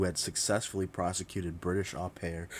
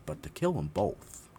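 ordinary talk

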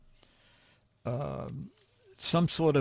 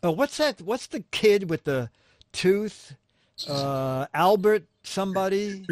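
clueless interviewer; 5 semitones higher than usual. Retold or imitated. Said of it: "it starts with".

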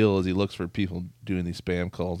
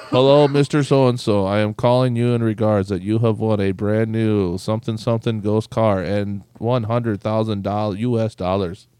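louder, showy announcer-style caller; mock prize-scam caller; 6 dB louder than usual. Scam caller announcing a prize, loud mock pitch. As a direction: sell the fake prize with big cheer.

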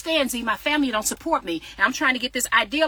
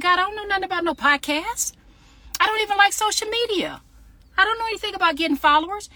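higher, pleading protest, half amused; retold protest to God; 9 semitones higher than usual. Answering God that she knows nothing of podcasts, high protest. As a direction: throw up your hands at God, voice pitched up.

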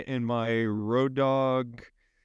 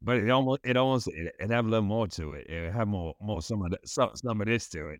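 Sling Blade drawl; 3 semitones lower than usual. Pretend. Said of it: "turned into Sling Blade".

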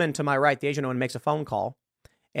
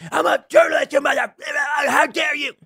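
high, loud mock tantrum, much higher and louder; mocking shriek; 10 semitones higher, 5 dB louder than usual. Mocking journalists who screamed at cops, high furious shriek. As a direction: shriek it like an outraged brat. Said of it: "screaming at the top of their lungs".

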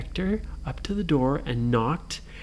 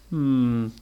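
pondering Frankenstein; 3 semitones higher, much slower than usual. Acted. Frankenstein reconsiders.

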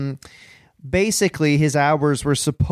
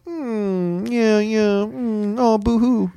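sarcastic mock pity; mocking boo-hoo; 7 semitones higher, much slower than usual. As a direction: fake sympathy, pitched up. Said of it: "And I go".

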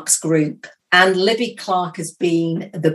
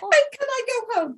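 laughing plea; 6 dB quieter than usual. Retold or imitated. Retells panic, laughing-crying.

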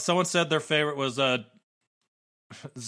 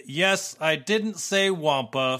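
triumphant; 3 dB louder, slower than usual. Retold or imitated. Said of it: "then triumphantly exclaimed".

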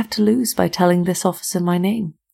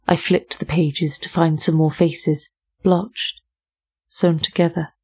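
poem reading. Acted. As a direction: read the poem gravely, pausing on images. Reads a poem.

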